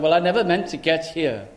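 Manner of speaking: the stranded sheep explaining itself, only a hint of a character voice; talking sheep. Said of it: "if the sheep could talk, he said".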